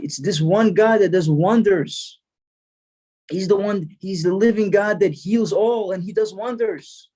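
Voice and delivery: acted rabbi's fervent pronouncement; emphatic proclamation. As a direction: proclaim it high, stretching the key words.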